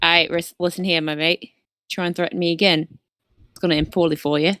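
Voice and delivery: put-on Baxter accent. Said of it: "I'm suddenly Baxter".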